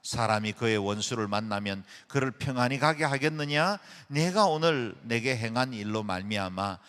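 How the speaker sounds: loud, steady unison reading of the Bible; group scripture reading. Acted. A congregation reading the Samuel passage aloud in unison, loud and steady. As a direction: read it out together, firm and measured.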